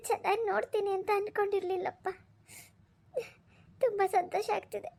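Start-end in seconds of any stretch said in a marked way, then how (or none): 3.8-4.9 a touch of tearful crying; tears of joy. Acted. Mother to son-in-law, mildly tearful with joy. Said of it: "ಅದಕ್ಕೆ ಕಣ್ಣಲ್ಲಿ ನೀರ್ ಬಂತಷ್ಟೇ".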